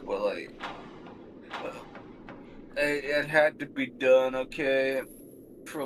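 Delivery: lightly voiced presidential impression; Bill Clinton. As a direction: make sheepish excuses to a wife, lightly imitated. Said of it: "Give your best Bill Clinton impression".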